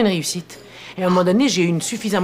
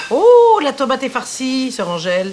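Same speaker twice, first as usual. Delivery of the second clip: mock excitement; 6 semitones higher, 6 dB louder than usual. Mock announcement of a dish.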